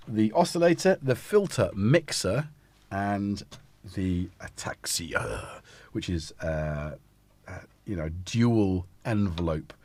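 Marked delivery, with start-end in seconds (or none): 4.0-5.6 whisper. Real, not acted. Listing modules.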